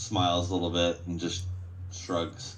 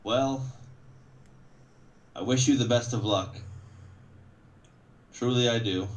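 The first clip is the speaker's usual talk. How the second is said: guard captain; 4 semitones higher than usual. Acted. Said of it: "guard captain steps forward on one of the sides and he says".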